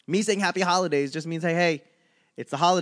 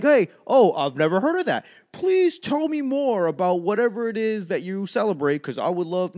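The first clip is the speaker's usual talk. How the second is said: fake enthusiastic; 4 semitones higher than usual. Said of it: "I'm like".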